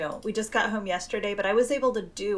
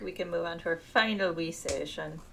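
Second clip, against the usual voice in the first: badly faked Irish accent, softer; 2 semitones lower, 4 dB quieter than usual. Podcaster copying her Irish co-host's words, bad mock-Irish accent. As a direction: have a poor go at an Irish accent. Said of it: "That was the worst accent".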